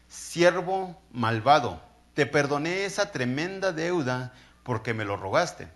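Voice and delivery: furious king rebuking the ungrateful servant; angry king. Acted. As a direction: scold the wicked servant with weight. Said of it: "el rey enojado".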